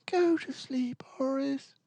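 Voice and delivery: high, insistent parents; badgering parents. A narrator's reading. Parents badgering Boris, high and insistent. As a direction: nag him to sleep. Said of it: "Papa and Mama badgered".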